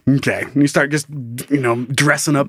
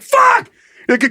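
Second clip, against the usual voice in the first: mock panic; 14 semitones higher, 3 dB louder than usual. Panicking diner in imagined rave.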